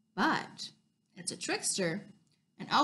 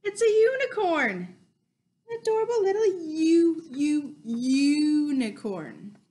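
excited; 4 semitones higher than usual. Acted. Excited reveal to children.

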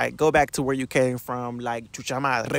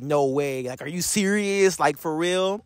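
surprised; 2 semitones higher than usual. Retold or imitated. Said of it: "like, a surprise".

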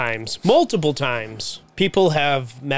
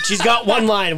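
laughing through the words; 6 semitones higher than usual. Real, not acted. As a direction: laugh while you say it. Laughing while telling.

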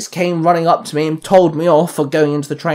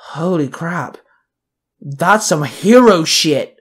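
chuckled; slower than usual. A narrator's reading. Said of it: "Kalani chuckled".

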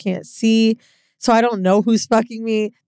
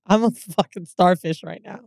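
normal talking voice

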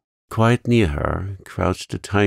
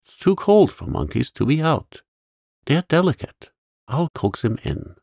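joyful eagerness; 8 semitones higher than usual. A narrator's reading. Sarah to Becky about the monkey, eager and glad. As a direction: tell Becky gladly. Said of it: "Sarah answered joyfully".

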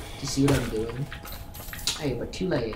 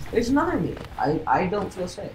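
surprised; 5 semitones higher than usual. Real, not acted. Sees a double of himself.

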